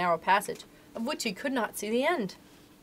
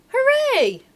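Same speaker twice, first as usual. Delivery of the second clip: loud, very high whoop of triumph; jubilant cheer; 9 dB louder than usual. A narrator's reading. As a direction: cheer at the top of the voice. Freed boy cheers.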